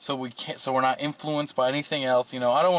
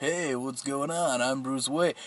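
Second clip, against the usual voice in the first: normal, casual talking voice; 4 dB quieter than usual. Describing how the movie's Batman sounds as Bruce Wayne: Bruce Wayne voice. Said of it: "he's more like".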